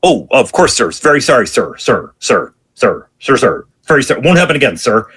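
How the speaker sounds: imitated grovelling subordinate; placating apology. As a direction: appease a yelling boss on the phone. Junior acting apology to yelling chief.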